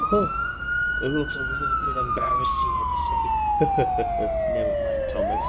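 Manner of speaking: very high squeaky cartoon voice; squeaky toy voice. Engines chatting after the rescue, very high squeaky voice.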